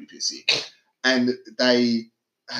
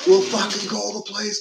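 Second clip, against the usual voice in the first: mock old man yelling; 10 semitones higher than usual. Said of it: "screaming at them".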